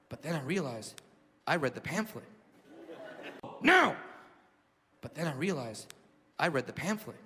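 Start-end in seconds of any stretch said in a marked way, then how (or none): 3.6-4.0 single high barked order; sudden mock shout; mugger's demand. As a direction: imitate an impatient robber.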